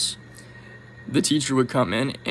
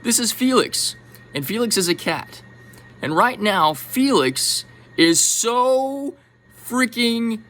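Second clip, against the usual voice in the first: mock lecturer voice, higher, building enthusiasm; lecturing teacher; 4 semitones higher than usual. Teacher showing the class a cat photo, mock gushing lecture. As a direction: play the teacher gushing over Felix, slowing down. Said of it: "say something along the lines of this".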